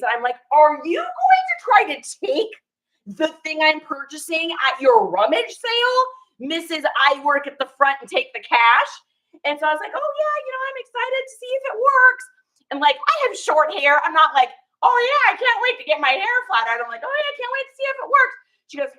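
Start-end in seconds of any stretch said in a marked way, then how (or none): 0.5-8.9 mock accusing. Accusing seller of taking item. 9.9-12.2 much higher, sing-song fake excitement; much higher, put-on sweet enthusiasm; fake cheerful. Fake enthusiasm for flat iron. 14.8-16.8 much higher, sing-song fake excitement; much higher, put-on sweet enthusiasm; fake cheerful. 17.0-18.3 much higher, sing-song fake excitement; much higher, put-on sweet enthusiasm; fake cheerful.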